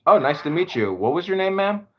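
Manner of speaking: high, sugary overly polite reply; sarcastic politeness set against an insult; mock polite. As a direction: kill her rudeness with fake courtesy. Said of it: "And I said".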